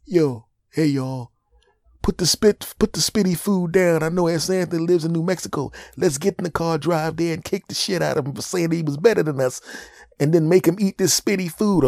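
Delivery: high, loud rallying call; angry sibling. Retold or imitated. Sibling rallying the family to drive over, loud high. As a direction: fire up the family for revenge.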